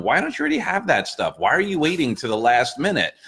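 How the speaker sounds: high-pitched scolding question, mimicking critics; mock incredulous. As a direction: imitate someone baffled by others' poor planning. Voicing critics questioning hurricane residents.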